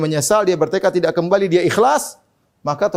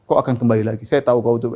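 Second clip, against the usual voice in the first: Satan tempting; 6 semitones lower than usual. Retold or imitated. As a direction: voice dropped low, coaxing like the devil. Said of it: "Karena setan akan datang". (suara setan yang rendah dan membujuk)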